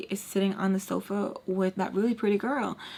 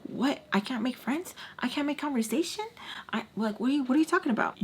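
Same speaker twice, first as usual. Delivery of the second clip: high, incredulous rising questions; defensive; 5 semitones higher, faster than usual. Retold or imitated. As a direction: protest innocence with pitched-up questions. Defensive retort to accusing friends.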